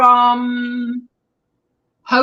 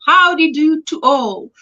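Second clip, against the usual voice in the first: attempted southern accent; 3 semitones higher than usual. Streamer imitates Granny D's hello, rough southern accent. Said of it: "I can't do the southern accent".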